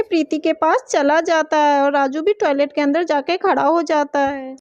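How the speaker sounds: rustige vertelstem, iets lager dan de personages; verhalende vertelstem. A narrator's reading. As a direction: vertel het gewoon als verteller aan kinderen. Story narration between character voices.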